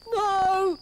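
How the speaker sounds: high, exasperated no; gatekeeper. Acted.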